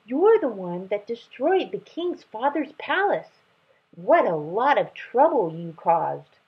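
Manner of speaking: put-on high childish accusation; gleeful cub. Lion cub teasing the terrible dragon, high childish glee. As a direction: tease him like a cheeky cub.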